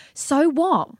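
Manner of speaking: high, slow, exasperated outburst; real exasperation. Real, not acted. Ranting to her co-host about people avoiding the grieving, exasperated. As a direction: let the frustration spill out, drawn out. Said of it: "you can see I'm getting so angry".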